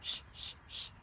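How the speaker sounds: soft unvoiced shushing; hushing shh. Mommy on the bus hushing, softly unvoiced. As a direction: hush them like a mother. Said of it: "the mommy on the bus goes shh".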